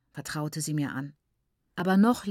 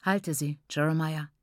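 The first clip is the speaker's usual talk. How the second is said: heavy, empty voice; 2 semitones lower than usual. Acted. Uncle tells the father to hold her, heavy and hollow. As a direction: speak as if drained of everything. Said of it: "mit schwerer, leerer Stimme".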